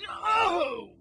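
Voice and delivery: alarmed cry. Acted. Acted cry while being spun.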